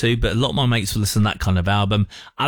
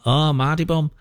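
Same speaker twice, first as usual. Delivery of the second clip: mock northern English accent, a bit higher; put-on northern accent; 4 semitones higher than usual. Girlfriend teasing her boyfriend as a Mardy Bum, imitated northern accent. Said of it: "you've got this accent".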